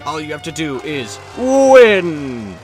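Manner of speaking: hyped TV announcer voice; booming prize announcer. Acted. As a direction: sell the prize like a showman. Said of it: "prize announcer read".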